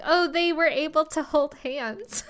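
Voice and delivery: high, giddy imitation of excited fans; mock excitement. Podcaster voicing the fuss over hand-holding, mock excitement.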